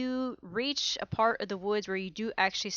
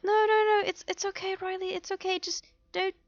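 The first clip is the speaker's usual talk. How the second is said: reassuring; 10 semitones higher than usual. Acted. Worried friend hastily reassures Riley.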